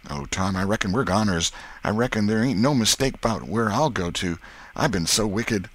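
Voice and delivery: put-on mildly despairing country boy; Huck's woeful voice. Huck confesses to Tom he is wicked, woeful. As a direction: lament your doom with a touch of dread.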